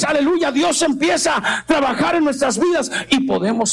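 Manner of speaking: urgent sermon, stretching key phrases; fervent preaching. Real, not acted. Preacher telling believers God wants open hearts, fervent. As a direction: exhort the congregation with a lifted voice.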